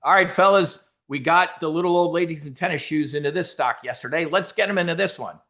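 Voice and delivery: Bud Fox broker. Retold or imitated. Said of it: "Bud Fox".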